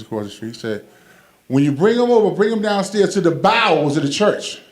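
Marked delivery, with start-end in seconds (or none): 1.5-4.6 pastor talk. Retold or imitated. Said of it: "Why he just say basement?".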